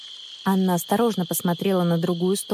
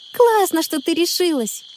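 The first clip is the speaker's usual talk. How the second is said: excited; 9 semitones higher, 3 dB louder than usual. A narrator's reading. Connie runs to greet Anna.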